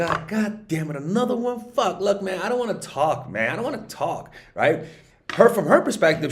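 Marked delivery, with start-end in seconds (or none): 0.0-4.3 frustrated guy. Retold or imitated. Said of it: "And you're like".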